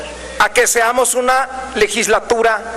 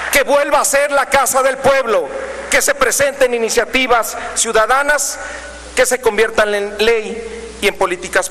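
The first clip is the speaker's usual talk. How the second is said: booming balcony speech; 3 semitones higher than usual. Real, not acted. Rally climax of congress speech.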